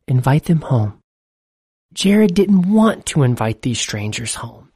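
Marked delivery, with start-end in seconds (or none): 0.1-0.9 a distant, otherworldly voice; a hint of an unseen voice repeating itself; mysterious voice. A narrator's reading. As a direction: urge him on like an unseen voice. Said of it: "the voice said".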